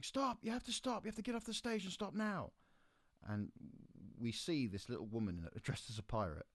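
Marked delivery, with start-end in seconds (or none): 0.0-1.0 high, loud frantic yell; little voice shouting stop. Retold or imitated. Steward ordering the band off stage, high frantic yell. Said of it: "this little voice from beside me just going". 1.0-2.5 high, urgent mock yell; imitated steward's order. Steward ordering the band off stage, high urgent mock yell. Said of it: "this little voice from beside me just going".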